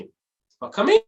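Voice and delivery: "You are coming" pitched high, rising to a question; questioning intonation. Shown as a demonstration. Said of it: "now it's a question".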